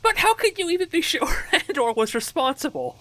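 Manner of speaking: high-pitched, barely contained laughter; laughing. Real, not acted. Player questioning the storyteller in the game, laughing. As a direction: read the question while cracking up.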